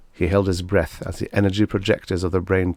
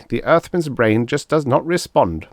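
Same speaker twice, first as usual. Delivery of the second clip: angry surprise; 7 semitones higher, 4 dB louder than usual. A narrator's reading. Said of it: "anger and more than a touch of surprise".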